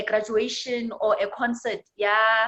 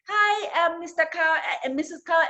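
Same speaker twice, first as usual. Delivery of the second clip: timid puppy; 6 semitones higher than usual. Acted. Timid puppy greets cow.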